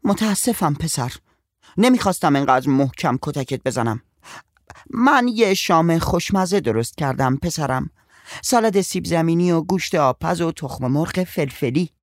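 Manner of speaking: a touch of gentle coaxing; mother gently apologising to her son under the tree. A narrator's reading. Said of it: "با صدای ملایمی".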